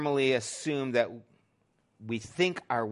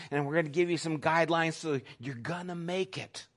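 reassuring; 2 semitones higher than usual. Retold or imitated. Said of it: "I had to calm her down".

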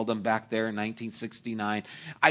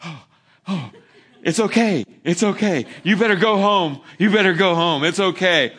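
reassuring; 6 semitones higher, 8 dB louder than usual. Retold or imitated. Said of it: "wanting to assure me everything was okay".

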